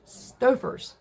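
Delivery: scoffing laugh on "Stouffer's", breathy and disbelieving. Retold or imitated. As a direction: laugh it off as absurd. Mocking the Kraft claim.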